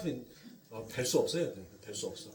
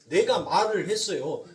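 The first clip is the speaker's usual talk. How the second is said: loud, driving pulpit emphasis; forceful preaching; 3 semitones higher, 10 dB louder than usual. Acted. Preacher loudly driving home God's promise to pay, forceful. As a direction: hammer it home to the congregation.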